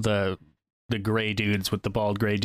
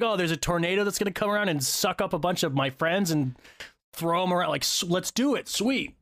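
high-pitched, mock gung-ho eagerness; stoked; 6 semitones higher than usual. Imitating war boys facing a tornado, stoked. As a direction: act out a pumped-up war boy, pitched up. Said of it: "They're just, like, stoked all the time".

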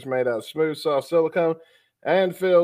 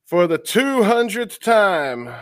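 mock exasperated; 9 semitones higher, 5 dB louder, slower than usual. Mock weary intro cue.

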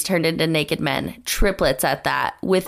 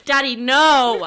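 laughing mock protest, louder; 6 semitones higher, 4 dB louder than usual. Real, not acted. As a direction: squeal it through a laugh.

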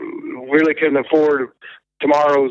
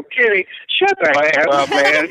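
retold exasperation. Musician answering what he thinks is his brother's prank, mock exasperated. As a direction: shut down the prank caller, playfully fed up.

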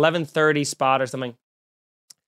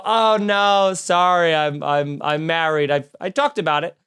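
apologetic brush-off. Retold or imitated. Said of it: "I go".

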